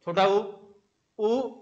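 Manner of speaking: "उ" said short and clipped; quick demo of short "उ"; short vowel demo. Shown as a demonstration. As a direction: sound out "उ" short for the class. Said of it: "समय कम लगा".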